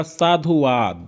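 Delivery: साधुवाद very slowly, short "u" in sadhu; drawn-out demonstration. Shown as a demonstration. Teacher spells it out for students, drawn-out demonstration. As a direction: stretch साधुवाद out, saa-dhu-vaad. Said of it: "साधु में छोटू रहेगा".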